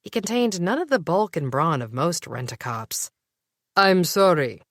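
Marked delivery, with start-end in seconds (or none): 3.8-4.6 sophisticated lisp. Acted. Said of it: "in a sophisticated lisp".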